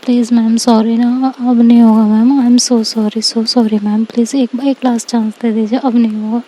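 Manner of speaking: mildly pleading, words tumbling out; pleading apology. Acted. Student begging the teacher not to send her out, pleading. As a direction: beg lightly for one last chance.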